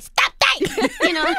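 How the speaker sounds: copying her right back with a laugh. Retold or imitated. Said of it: "I was like".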